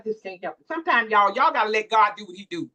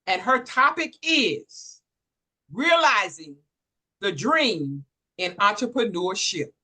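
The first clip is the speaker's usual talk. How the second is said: announcer introduction. Real, not acted. Second announcement.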